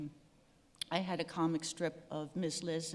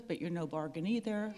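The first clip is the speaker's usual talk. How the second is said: laughing; much faster than usual. Real, not acted. Reading her joke card aloud.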